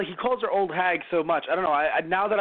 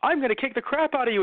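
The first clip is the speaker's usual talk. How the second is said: tough Yusuke threat; 9 semitones higher than usual. Retold or imitated. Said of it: "he's just like".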